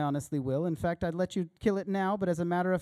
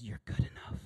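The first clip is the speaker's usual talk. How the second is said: hushed seductive whisper; 7 semitones lower, 7 dB quieter than usual. Acted. The lizard whispers flattery to the old self. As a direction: whisper it like a tempter at your ear. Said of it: "whispers and says".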